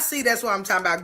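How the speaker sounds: quick, mocking "See, that's what I'm talking about"; sarcastic tone. Shown as a demonstration. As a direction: toss it off fast with a sarcastic edge. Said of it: "see my tone".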